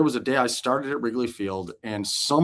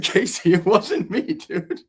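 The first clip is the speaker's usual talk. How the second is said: higher, louder exasperated plea; pleading denial; 9 semitones higher, 4 dB louder, slower than usual. Retold or imitated. Johnny pleading innocence to Casey, exasperated. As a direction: beg him to believe you.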